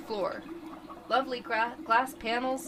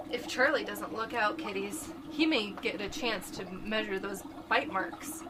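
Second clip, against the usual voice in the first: horror host narration. A narrator's reading. Narrator addresses kiddies.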